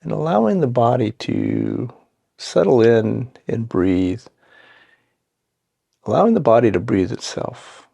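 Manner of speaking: calm, unhurried meditation guidance with long pauses; guided meditation. Acted. Guide settling listeners into seat and breath, calm guided meditation. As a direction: ease them gently into the practice, leaving space between phrases.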